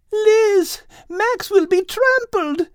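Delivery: high, alarmed scream-like cry; frightened cry for help. A narrator's reading. Kate crying out in fear for Max. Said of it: "Kate screamed".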